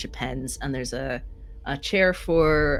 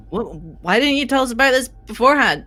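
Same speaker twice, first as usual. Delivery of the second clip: band manager calling through a door, higher and flustered; 3 semitones higher, 3 dB louder than usual. Acted. Band manager answering from behind the door, mildly raised voice. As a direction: raise the voice a little, protesting then relenting. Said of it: "you can hear the band manager".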